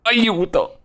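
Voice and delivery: explosive Italian cursing. Real, not acted. Playing alone, yelling in game.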